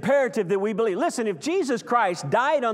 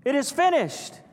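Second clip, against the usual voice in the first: Jesus crying out; 6 semitones higher, slower than usual. Retold or imitated. Preacher voices Jesus on the cross, slow solemn cry. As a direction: proclaim it slowly like a final cry. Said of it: "He cried".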